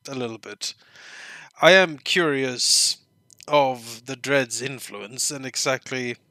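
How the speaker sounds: a touch of a scheming vizier; lightly voiced sly court advisor; evil vizier voice. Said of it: "it's time for evil Vizier voice".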